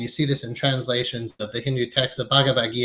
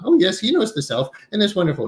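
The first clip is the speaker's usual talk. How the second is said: put-on Hindi accent; 6 semitones higher, faster than usual. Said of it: "in his beautiful Hindu accent".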